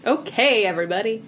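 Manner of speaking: lightly put-on meeting leader; leading-a-meeting voice. Shown as a demonstration. Host rallies the players to start, meeting-leader voice. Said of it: "I'm in my leading a meeting voice".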